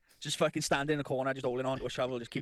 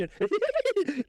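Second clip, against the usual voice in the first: very high hysterical cackle, put on; imitated screaming laugh. Copying the friend's laugh from the dark corner, screamed cackle. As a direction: mimic a laugh that is more like a scream. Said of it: "He would just scream".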